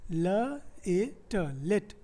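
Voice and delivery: "लेट" split into "ल, ए, ट", then said whole; sounding out. Shown as a demonstration. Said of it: "यहाँ पे कितना सिलेबल है".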